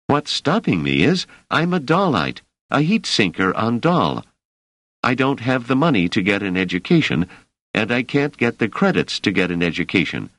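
put-on a young man pleading his case; earnest young worker. Emeril voiced by narrator.

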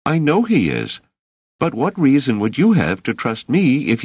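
a steady protector who won't be doubted; Dors's voice. Acted.

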